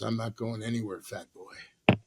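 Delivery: quoting the cowboy. Retold or imitated. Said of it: "He goes".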